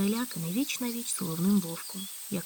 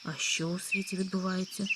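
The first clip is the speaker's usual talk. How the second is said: even, calm question, a touch softer; 3 dB quieter than usual. Acted. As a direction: ask it calmly and unbothered. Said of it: "спокійним голосом спитав їжачок". (спокійним голосом)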